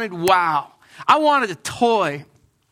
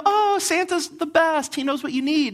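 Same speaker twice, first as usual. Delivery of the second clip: mom's gushing voice; 6 semitones higher than usual. Retold or imitated. Son mimics mom at the sock opening, gushing. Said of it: "she'd go".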